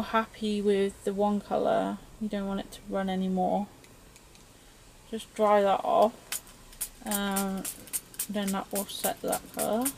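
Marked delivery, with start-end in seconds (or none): 5.1-9.9 talking around a paintbrush held in teeth; words muffled by a brush in the mouth. Real, not acted. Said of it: "talking with a paintbrush in my mouth".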